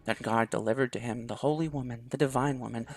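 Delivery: solemn scripture reading. Acted. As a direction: read it like holy scripture to the class. Delilah reads the town's origin story.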